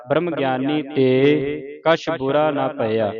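slow, drawn-out line endings; scripture recitation. Shown as a demonstration. Teacher recites Sukhmani Sahib for the congregation, slow measured recitation. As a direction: recite slowly, holding the long vowels.

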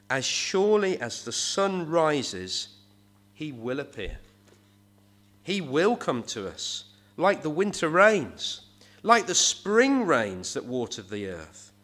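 slow, weighty reading of the verse; solemn Bible reading, unhurried; scripture reading. Shown as a demonstration. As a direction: read the promise out slowly, savouring each line. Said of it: "So Hosea says these wonderful words".

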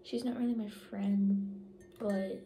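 talking around a straw; straw in mouth. Real, not acted. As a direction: lips gripping straw. Seen 0: Pink straw held in mouth corner while she talks.

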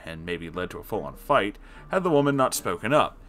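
usual speaking voice

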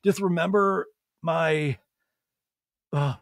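halting mock choke-up; imitated tearful confession. Sandoval crying in a talking head, halting mock-tearful impression. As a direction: stumble through it as if fighting tears. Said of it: "he's fully crying in this one".

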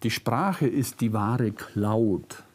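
ordinary talk, nothing marked

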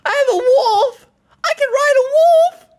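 excited high shout; calling out to someone far off; yelling across the room. Real, not acted. Dad upstairs, kid calling out.

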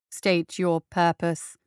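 slow, low metallic robot voice; bass metallic voice. Acted. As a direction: speak it like a cold iron machine. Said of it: "in his bass metallic voice".

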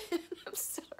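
teary laugh. Real, not acted. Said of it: "I really didn't think I was gonna cry this much".

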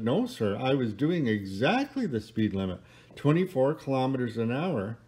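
lightly acted pride, leaning on exactly; politely insist, with a touch of pride; understated proud driver, sure of herself; mildly proud. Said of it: "she said, very proudly".

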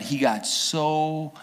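hushed, breathy-free whisper of suspense; storyteller hushing the crowd before the king's rage; dramatic whisper. A narrator's reading. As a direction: drop to a whisper for the reveal.

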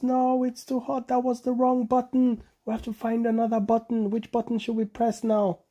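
high frightened cry about the heat; scared animals. A narrator's reading. Animals in the hot rocket to Bonobo, high and scared. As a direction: wail it high in alarm. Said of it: "Bonobo was screaming".

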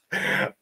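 wheezy, quiet mock laugh; imitated hard laughter. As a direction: imitate someone helpless with laughter. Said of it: "laughing really hard".

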